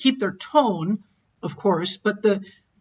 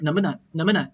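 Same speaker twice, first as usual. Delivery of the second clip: 能不能 run together quickly as one unit; quick glide; 4 semitones lower, faster than usual. Shown as a demonstration. Teacher pointing out the middle part, 能不能 glided quickly. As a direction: skim over the middle of 能不能. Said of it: "It just glides over it really quickly".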